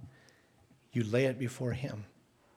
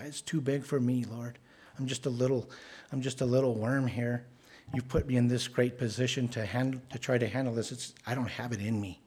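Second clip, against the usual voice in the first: humble prayer. Acted. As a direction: confess weakness gently to God. Voiced prayer, laying it before God.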